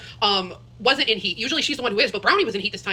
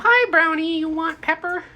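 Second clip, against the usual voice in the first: pet talk; 6 semitones higher, slower than usual. Real, not acted. To her guinea pig Brownie, bright pet talk. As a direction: coo a hello to the pet.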